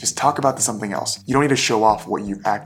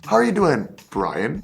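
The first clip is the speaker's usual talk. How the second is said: imitating the executive; 5 semitones higher than usual. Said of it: "and he goes".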